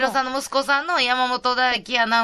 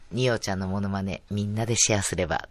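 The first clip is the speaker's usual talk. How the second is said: very low, soft mimicking voice; ニオちゃん impression; 12 semitones lower, 7 dB quieter than usual. Showing off the impression for everyone to share, low mimicking voice. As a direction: drop right down into a hushed, low character voice. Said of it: "ニオちゃんのモノマネのコーナーができる".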